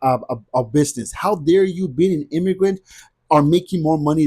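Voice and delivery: mock indignant how dare you, leaning hard on dare; imitating jealous locals. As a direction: act out a resentful neighbour, mildly outraged. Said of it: "were envious, were jealous, were mad".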